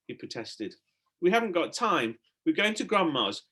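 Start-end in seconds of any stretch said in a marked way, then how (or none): 1.2-3.4 a touch out of breath; breathless. A narrator's reading. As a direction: talk between quick breaths. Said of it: "said Stella breathlessly".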